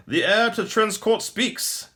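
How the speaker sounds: mocking exclamation. Maldor mocks the captive prince, high loud exclamation. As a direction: crow it out like a delighted captor. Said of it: "Maldor exclaimed".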